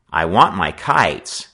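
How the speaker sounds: drawn-out, insistent demand; standing firm. Acted. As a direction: state the demand slowly and firmly. Boy faces down gang leader.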